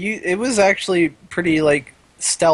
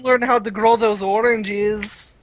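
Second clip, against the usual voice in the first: a slow, higher, hammed-up fake Mexican accent; bad Mexican accent; 4 semitones higher, slower than usual. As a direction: keep the awful Mexican accent going for a laugh. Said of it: "that was horrible".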